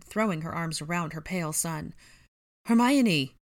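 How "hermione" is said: high, loud searching call; anxious call. A narrator's reading. Ron looks around the group for Hermione, calling anxiously. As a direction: call out for the missing. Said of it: "Ron asked, looking around".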